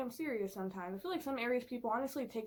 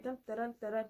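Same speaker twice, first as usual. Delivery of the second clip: plodding footsteps; faster than usual. Retold or imitated. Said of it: "people walk like this".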